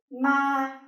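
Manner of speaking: "ma" held long and level at a high pitch; high flat tone. Shown as a demonstration. Vietnamese teacher demonstrating the first tone, high and flat. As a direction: say "ma" on one steady high note, no fall. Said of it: "high and flat tone".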